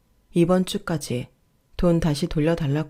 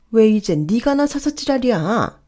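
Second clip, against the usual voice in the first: higher-pitched irritated scolding; 4 semitones higher, 3 dB louder than usual. Acted. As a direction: tell them off, pitch lifted in annoyance. 어머니가 참견하는 자식을 나무람. (짜증 내며 쏘아붙이는 말투)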